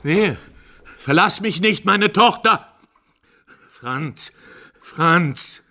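high, loud lamenting cries; anguished wailing. Acted. The old father to Franz, wailing for his lost son. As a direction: beg for his son back.

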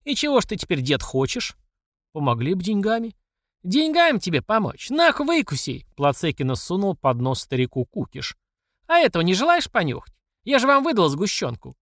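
high, jeering taunt; taunting boss. Acted. Platsekina taunts the old man, high and jeering.

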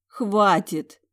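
brief high exhaled stop. Acted. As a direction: breathe it out, exhausted. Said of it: "выдохнула я".

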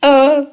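high, loud sharp yelp; yelp of pain. Acted. Ludwig pinched again, loud high yelp. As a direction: shriek when your tail is pinched. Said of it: "вскрикнул Людвиг".

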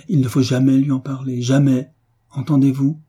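ferme, plus haut et plus fort; insistant. Acted. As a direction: marteler l'interdiction. Prêtre interdit d'en parler. (le prêtre avertit Philippe de se taire, ton ferme et insistant)

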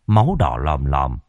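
ordinary delivery

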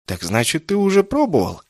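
sharp high rise of mock concern; mock sympathy. Kessin, mockingly sympathetic to the mage, sneering. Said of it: "с издевательски сочувственным интересом".

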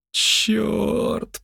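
high, drawn-out moan of dismay; groaned. Acted. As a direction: moan the curse, stretched and high. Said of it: "простонал Джо". (стон досады)

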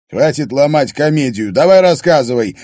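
loud, fast angry command; angry demand. Acted. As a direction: bark it at him, furious. Harry demands Finn talk.

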